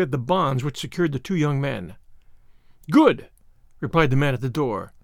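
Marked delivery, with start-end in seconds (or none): 2.9-3.3 short sharp approval; clipped and firm; curt command. Acted. Masked leader replies.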